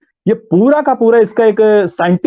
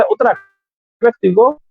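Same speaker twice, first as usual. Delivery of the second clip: Uttarakhandi accent. Shown as a demonstration. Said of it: "Uttarakhand का कोई व्यक्ति बोला हो".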